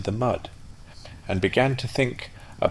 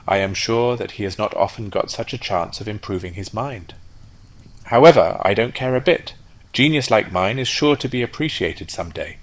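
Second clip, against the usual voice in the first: offended rocket; 3 semitones higher, 5 dB louder than usual. Acted. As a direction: shrug it off with wounded pride. Rocket huffs after dragonfly leaves.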